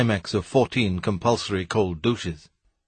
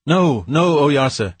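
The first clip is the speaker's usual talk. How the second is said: frantic raised shout; 5 semitones higher, 4 dB louder, slower than usual. Acted. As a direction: cut him off in a panic. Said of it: "he shouted".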